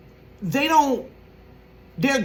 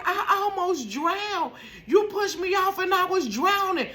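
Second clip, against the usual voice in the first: imitating sister; 9 semitones higher than usual. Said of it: "She was like".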